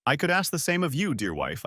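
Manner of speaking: lightly pointed "wife" closing the line; stress on WIFE. A narrator's reading. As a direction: lean on the word "wife" after a high start. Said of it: "putting emphasis on the word wife".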